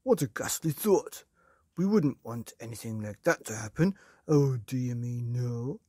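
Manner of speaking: loud, fake dismay; hammed-up false sympathy; Mr Twit's mock concern. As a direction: pretend to be horrified, sly underneath. Mr Twit feigns concern.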